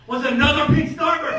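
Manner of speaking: loud, jubilant shout of discovery; amazed excitement. Retold or imitated. Comic finds another pink Starburst, ecstatic shout. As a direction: burst out as if witnessing a miracle. Retold miracle of a second candy.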